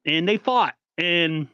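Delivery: ordinary delivery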